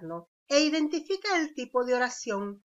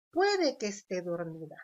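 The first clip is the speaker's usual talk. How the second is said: doubtful; 4 semitones lower than usual. Shown as a demonstration. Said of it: "Es una oración dubitativa".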